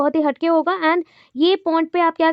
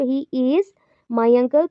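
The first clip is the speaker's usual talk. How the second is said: IS held before a pause, "my uncle" lower; doubting stress on IS; 3 semitones lower, much slower than usual. Shown as a demonstration. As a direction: linger on "is", pause, then finish low. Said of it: "doubt है मुझे".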